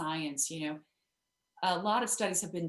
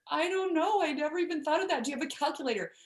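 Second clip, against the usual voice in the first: higher, louder, faster flustered blurting; nervous founder blurting to a generous donor, higher and louder; 10 semitones higher, 5 dB louder, faster than usual. Retold or imitated. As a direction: rush it like someone caught off guard by good news. Flustered Lynn voiced in story.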